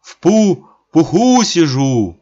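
весело, запинаясь от холода; выкрикнуть бодро, заикаясь. A narrator's reading. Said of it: "А Косой весело". (весело)

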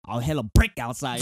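mock-aggressive Toronto talk; aggressive Toronto slang. Showing friends how Toronto slang talks, mock aggressive. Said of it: "And it's so aggressive".

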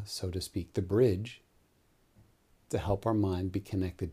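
calm meditation guide, long pauses between phrases; guided meditation. Real, not acted. Yoga teacher guiding listeners into Nidra with eyes closed, calm meditation voice. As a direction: lead them gently into the breath, unhurried.

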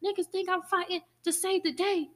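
mock gritty hero voice; Batman voice. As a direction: voice him as a brawler. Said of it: "He really just wanna".

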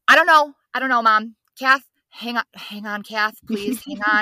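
imitating yourself too panicked to answer mom; flustered panic. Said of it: "be like".

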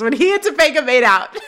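mock-excited punchline with a laugh. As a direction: jump in gleefully, laugh breaking in. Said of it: "jumps in very excitedly and says".

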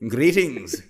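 a hint of stiff British accent; clipped mock greeting. Mocking actress to friend, hint of British accent. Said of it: "she's like".

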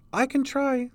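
put-on very high child's voice; hurt little girl. A narrator's reading. Hurt girl asked to sit up, high child's voice. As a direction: answer in a small, high girl's voice.

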